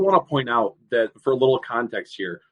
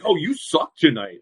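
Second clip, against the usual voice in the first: slow, raised-pitch imitation of a heckle; mock kid's yell; 5 semitones higher, 4 dB louder, slower than usual. Kid heckling the referee at a gas station, mild mock yell. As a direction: draw out a half-hearted jeer. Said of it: "I get yelled at by kids".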